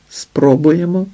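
ordinary delivery, nothing marked

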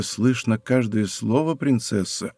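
de Guiche numbly repeats the princess's words, mechanically. Acted. Say слово as a dazed, automatic echo. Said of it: "машинально повторил молодой человек".

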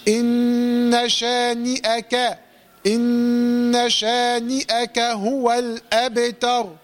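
إن شانئك slow, ghunna held two beats; correct recitation. Shown as a demonstration. Teacher modelling the correct reading. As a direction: recite إن شانئك slowly with proper nasal. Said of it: "correct recitation demo".

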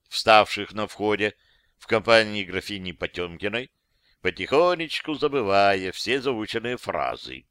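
plain reading voice

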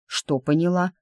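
usual speaking voice

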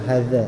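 low "Hadza" with the tongue too far out; laboured, over-protruded dz in "Hadza"; overdone Javanese-style dzal. Shown as a demonstration. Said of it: "Gak usah kayak gitu". ("Hadza" dengan lidah terlalu keluar seperti logat Jawa)

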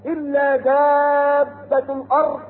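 Quran recitation. Acted. Preacher reciting to the congregation, slow chant. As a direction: draw the words out in chant.

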